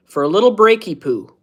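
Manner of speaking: put-on lightly babyish "breaky poo"; cutesy baby talk. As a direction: coo the silly word like to a toddler.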